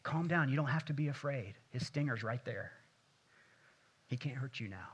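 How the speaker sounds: reassuring son. Retold or imitated. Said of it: "he says".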